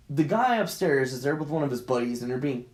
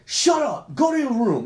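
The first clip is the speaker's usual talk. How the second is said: high, loud snap at partner; raised, urgent command; retold yell; 9 semitones higher, 6 dB louder than usual. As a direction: yell it as a panicked order. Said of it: "I yell at her".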